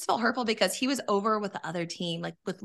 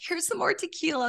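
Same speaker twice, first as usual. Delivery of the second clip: higher, breezy offer of another drink; mock producers offering; 10 semitones higher than usual. Producers handing over more tequila, high cheery offer. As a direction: pitch up like a cheerful enabler. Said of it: "And they're like".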